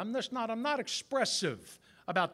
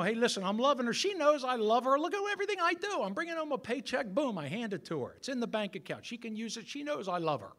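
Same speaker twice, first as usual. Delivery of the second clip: a hint of a proud, boastful husband; mildly mocking macho bragging; 4 semitones higher, faster than usual. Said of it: "that macho facade of it".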